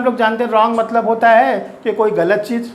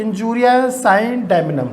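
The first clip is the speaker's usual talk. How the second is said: each Latin word spaced out very slowly for notes; slow dictation; much slower than usual. Shown as a demonstration. Teacher slowly dictating the first maxim to students. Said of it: "तो पहली maxim पे आते हैं".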